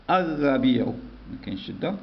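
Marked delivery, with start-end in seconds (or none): 0.1-0.9 الربيع with the lam silent and a doubled r; sun-letter reading. Shown as a demonstration. Teacher showing the class how الربيع is read, silent lam. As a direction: read الربيع straight into a held r, no l sound. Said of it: "نقرأ".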